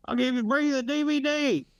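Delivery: high-pitched conspiracy nut; conspiracy-guy impression. Someone pitching Plandemic to a friend, mock conspiracy guy. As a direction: put on a high-voiced excitable conspiracy believer. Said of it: "for a motherfucker to go".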